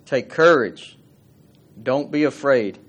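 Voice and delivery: "Take courage" called out loud and quick, "Don't be afraid" firm; Jesus calling urgently across the water; urgent command. Shown as a demonstration. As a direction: call it out fast to frightened men. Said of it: "That means quick, fast, and in a hurry".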